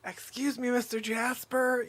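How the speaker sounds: a hint of a sugary receptionist; mock receptionist. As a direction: play a prim front desk caller. Mock receptionist phone call.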